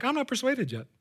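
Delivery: small high-pitched protest; unconvinced listener. Acted. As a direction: pipe up as a doubtful reader. Voices an unconvinced reader.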